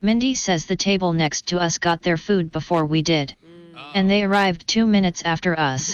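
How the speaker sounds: flat robotic AI Karen voice. Acted. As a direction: speak like a complaining robot. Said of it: "I am Mindy's assistant".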